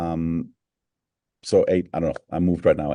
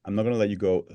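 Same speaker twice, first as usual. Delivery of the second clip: playful whispered aside; faster than usual. Real, not acted. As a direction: whisper it like a teasing secret. Host teasing guest, playful aside.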